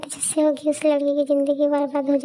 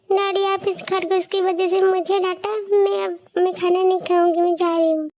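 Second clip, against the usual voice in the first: sulky daughter; 3 semitones higher, 4 dB quieter than usual. Acted. Daughter sulks to father.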